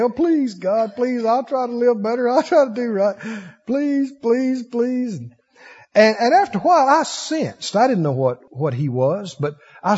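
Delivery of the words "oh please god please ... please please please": mildly raised pleading; mock begging. Young seeker begging God at the altar, mock begging. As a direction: imitate begging in a run of pleas. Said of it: "I begged and cried".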